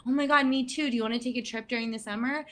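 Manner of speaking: high, bright burst then quick question; eager agreement. Retold or imitated. Friend leaning into a sad person's hope, eager. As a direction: jump on their glimmer of hope.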